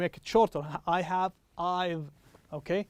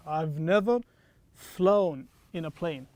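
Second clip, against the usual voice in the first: slow demo; 2 semitones lower, slower than usual. Shown as a demonstration. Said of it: "also here we have v".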